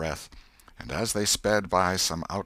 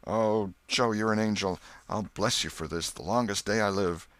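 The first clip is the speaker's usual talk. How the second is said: high, gushing gratitude; grateful tearful thanks; 4 semitones higher, 4 dB louder than usual. Acted. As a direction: thank him like he saved you. Potter thanks Joe.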